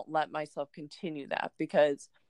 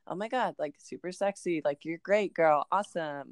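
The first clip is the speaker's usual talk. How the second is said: lightly mock-gushing hype talk; self-love basic voice. Podcaster parodying self-love talk, in a lightly gushy basic voice. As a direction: gently send up a basic pep talk. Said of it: "that's my self-love basic voice".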